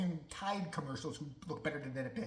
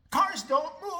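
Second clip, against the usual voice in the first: emphatic; 9 semitones higher, 7 dB louder, slower than usual. Real, not acted. Repeating the point, emphatic.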